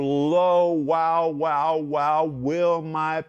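loud high exclaiming wow; excited wow. Pretend. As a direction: burst out in amazement. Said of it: "Jesus says".

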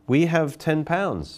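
high, slow auctioneer call. Retold or imitated. Auctioneer announcing the bid to the crowd, slow and high.

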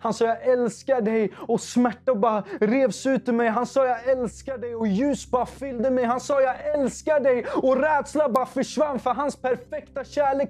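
high, loud, urgent testimony; impassioned preaching. Acted. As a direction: preach it at full force, pitch held high. Preaches at full force.

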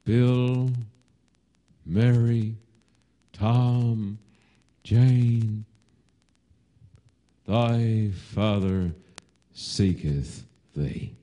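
restrained, slow calling with a touch of breaking; understated aching cry, spaced out and falling. Retold or imitated. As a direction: call each name separately, sinking at the end. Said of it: "he cries out with a breaking voice".

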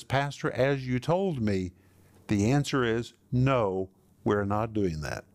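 slow, gentle, respectful refusal with "no" sinking low; kind and respectful. Retold or imitated. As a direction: refuse the pastor kindly and slowly, with respect. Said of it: "kindly and respectfully says".

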